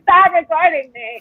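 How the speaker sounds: mild mock wail, drawn out slowly; a drawn-out, half-hearted imitation scream. Mocking the woman in front of the camera, mild mock scream.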